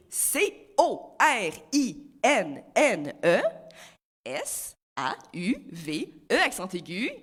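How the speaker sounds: a hint of a slow, sultry Latin singer spelling letters; mock Latin dance. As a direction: spell the name as a hammed-up Latin dance number. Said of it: "ce sera tout pour la danse latine".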